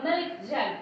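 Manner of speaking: "milk jug" said slowly, weight on "milk"; stress on MILK. Shown as a demonstration. Teacher demonstrating compound words, stress on milk. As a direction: lean on "milk", let "jug" follow lighter. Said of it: "The stress goes on milk".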